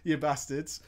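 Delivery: laughing through a fake rant; half-laughing, mock scolding. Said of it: "You should listen to Vent, right?".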